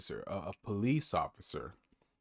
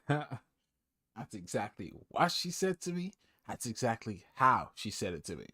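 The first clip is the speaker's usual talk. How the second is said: mocking mimicry; 3 semitones higher than usual. Mocking the man's claim about the officer, amused mimicry.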